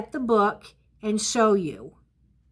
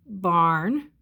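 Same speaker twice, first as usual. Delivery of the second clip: staccato; 5 semitones lower than usual. Shown as a demonstration. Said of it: "write each word separately".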